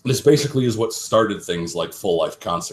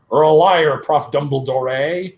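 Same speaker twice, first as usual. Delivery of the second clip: angry accusation; 5 semitones higher, 6 dB louder than usual. Acted. Hagrid storms off accusing.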